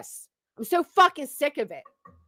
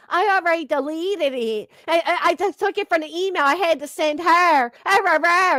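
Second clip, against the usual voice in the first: whining voice; 3 semitones higher than usual. Retold or imitated. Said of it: "in this whining voice".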